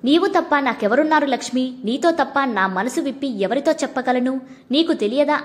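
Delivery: ordinary delivery, nothing marked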